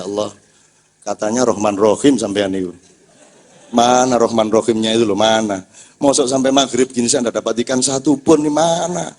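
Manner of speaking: low, sulky complaint to God; grumbling fisherman. Retold or imitated. Madura fisherman scolds God over no fish, low grumble. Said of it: "Gini dia".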